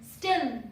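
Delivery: स्टिल said firmly as one beat; स्टिल as one emphatic syllable; one-syllable demo. Shown as a demonstration. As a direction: say स्टिल in a single falling syllable. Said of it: "एक बार नीचे आई है".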